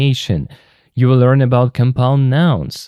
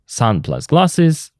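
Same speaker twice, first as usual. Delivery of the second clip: slow, Sun plus glasses each word separate; nouns said apart; 3 semitones higher, slower than usual. Shown as a demonstration. Teacher shows learners the two nouns, said slowly apart. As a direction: lay out the two parts slowly. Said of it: "For example".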